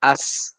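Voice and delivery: "As" with an unblocked, lasting s; flowing sound. Shown as a demonstration. Teacher shows it cannot be dammed, "As" sustained. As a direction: let the s of "As" stream on. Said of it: "tapi tetap masih ngalir".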